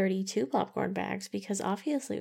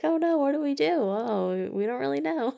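high, loud mock panic; panicked writers; 5 semitones higher, 5 dB louder than usual. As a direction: squeal it in fake alarm.

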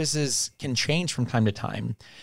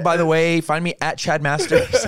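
mock self-promoter; 4 semitones higher, 4 dB louder, faster than usual. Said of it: "It's just Chad submitting prompts".

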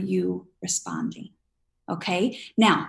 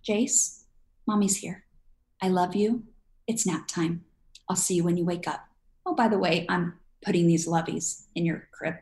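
soothing mother; 3 dB quieter than usual. Shown as a demonstration. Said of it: "you say".

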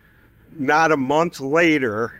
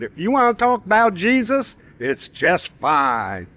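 imitating the band; 6 semitones higher than usual. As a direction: lightly play the band's easygoing promise. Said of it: "And that's the way they put it".

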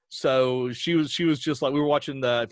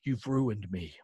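mock accusation; 4 semitones lower, 6 dB quieter, slower than usual. Quotes wife's accusing look.

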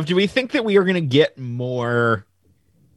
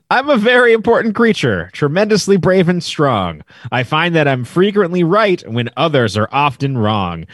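deadpan reading. Shown as a demonstration. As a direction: read the lyrics dry, no singing. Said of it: "I'm gonna read it deadpan".

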